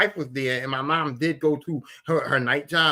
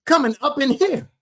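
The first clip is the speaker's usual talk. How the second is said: high, loud, emphatic imitation of dad; dad's emphatic refusal; 13 semitones higher, 6 dB louder than usual. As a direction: lay down the law, word by word. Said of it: "My dad said exact words".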